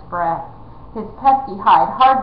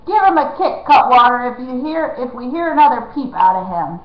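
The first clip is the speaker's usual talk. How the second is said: loud, higher rough bandit; threatening outlaw; 4 semitones higher, 5 dB louder than usual. Acted. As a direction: bark a threat.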